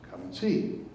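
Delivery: hushed come and see. Retold or imitated. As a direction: whisper it gently, inviting. Jesus quoted, whispered invitation.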